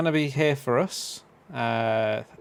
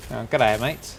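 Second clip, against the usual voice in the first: Aussie-Brummy mix; 2 semitones lower, slower than usual. Pretend. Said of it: "I'm trying to combine the two".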